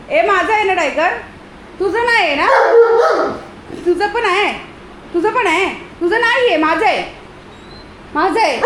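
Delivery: sing-song high teasing of the dog; playful high teasing. Real, not acted. Woman teasing her dog Tiger about whose house it is, high and playful.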